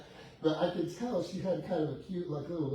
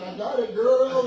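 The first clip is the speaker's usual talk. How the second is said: cocky brag; 9 semitones higher, 14 dB louder than usual. Retold or imitated. His cocky reply, retold.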